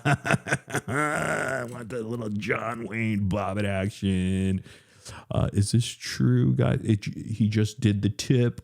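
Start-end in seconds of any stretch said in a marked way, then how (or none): 0.0-4.6 laughing. Real, not acted. Laughing while speaking.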